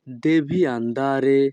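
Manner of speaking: each Italian word spoken slowly and clearly; teacher modelling Italian for learners, very slow; slow demo. Shown as a demonstration. Bengali teacher models Italian phrase for students, slow and careful. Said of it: "Italian ভাষা".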